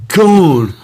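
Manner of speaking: high-pitched exasperated protest; mock indignant outburst. Friend kicking off at Lewis over teasing, indignant and high-pitched.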